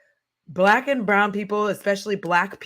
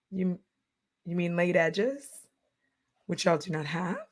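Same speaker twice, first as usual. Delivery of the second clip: quiet side-eye; 6 dB quieter than usual. Retold or imitated. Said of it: "I was just like".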